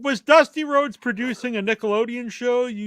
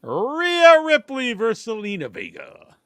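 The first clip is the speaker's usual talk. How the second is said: match announcer; 4 semitones higher than usual. Pretend. Host reading the next match to the others, announcer voice. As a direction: announce the bout like a ring announcer.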